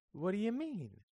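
high-pitched, affronted demand; indignant question. A narrator's reading. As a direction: demand an explanation, put out. Greta challenged in a quarrel.

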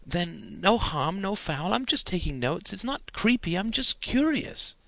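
put-on a boy pleading his innocent case; lightly voiced eager young boy; earnest boy. A narrator's reading. Stephen defends his note-taking.

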